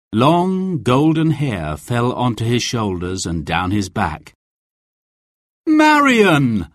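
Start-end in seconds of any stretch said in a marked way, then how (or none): 5.7-6.7 high cry of surprise, falling away; astonished cry. A narrator's reading. Robin recognises Marion under the hood, crying out in surprise. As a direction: exclaim the name in amazement. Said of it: "cried Robin".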